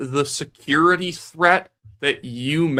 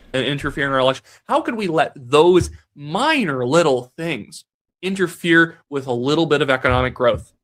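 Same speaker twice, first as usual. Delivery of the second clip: sarcastic, put-on horrified outrage. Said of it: "he was being sarcastic".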